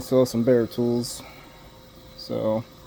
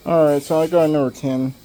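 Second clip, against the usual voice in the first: mouth full; 4 dB louder, faster than usual. Real, not acted. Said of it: "I got a screw in my mouth".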